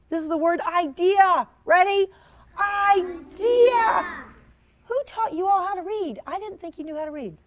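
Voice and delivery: ordinary delivery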